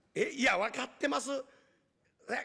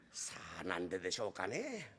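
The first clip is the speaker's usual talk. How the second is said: whisper; 10 dB quieter than usual. Acted. Servants whisper together.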